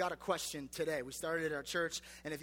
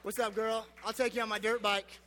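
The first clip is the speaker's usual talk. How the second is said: lightly voiced cocky bro hitting on a girl; a touch of dirt bike bro swagger; bro pickup line. Youth pastor shows his wife his old bro pickup line. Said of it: "You ready for this?".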